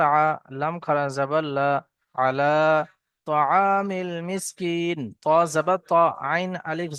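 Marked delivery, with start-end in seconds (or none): 2.1-5.0 slow drawn-out chant of the joined words; recitation. Acted. Teacher joining spelled letters for students, slow chant. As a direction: stretch each vowel as in recitation.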